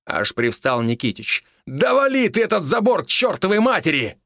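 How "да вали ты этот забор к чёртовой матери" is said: shouting. A narrator's reading. Nikitich urging to ram fence.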